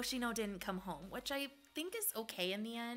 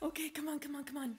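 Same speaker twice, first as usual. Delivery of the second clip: frantic, rapid, panicked, rattled-off delivery; 3 semitones higher than usual. Pulling for rares in a game, the speaker is talking really fast, freaking out. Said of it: "I'm talking really fast because I'm like freaking out".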